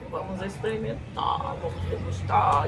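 unvoiced hushed words; whispering. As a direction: whisper the invitation.

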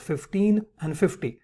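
"fifteen" and "fifty" slowly set apart; slow down to stress "fifteen" and "fifty"; emphasis on both numbers. Shown as a demonstration. Teacher contrasting two easily confused numbers, stressing "fifteen" and "fifty". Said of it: "You're putting emphasis on both these words".

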